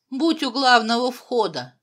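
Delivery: loud order to a subordinate; commanding. A narrator's reading. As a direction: call out an urgent command. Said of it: "скомандовал Петюлькину Жмяк".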